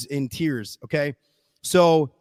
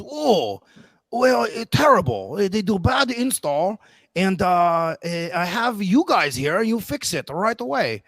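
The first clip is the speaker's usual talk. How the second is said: higher-pitched mock Asian accent, swooping tune; imitated Asian accent; 4 semitones higher than usual. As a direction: caricature a customer with a thick Asian accent. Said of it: "he was an Asian American guy".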